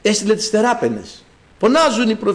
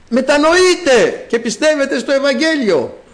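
calling out; 5 semitones higher than usual. Acted. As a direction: proclaim it like a herald's call. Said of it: "φωνάζει η σοφία". (δυνατό κήρυγμα, σαν διαλάλημα)

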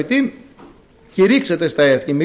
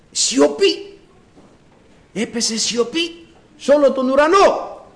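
hushed heavenly silence; 9 semitones higher than usual. Acted. Dramatic telling of heavenly silence.

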